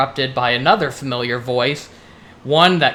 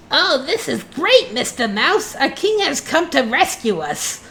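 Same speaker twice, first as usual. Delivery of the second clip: very high, thrilled rodent squeal; excited exclaiming; 11 semitones higher than usual. Acted. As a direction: exclaim with high-pitched relief at being rescued. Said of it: "Rodent exclaims".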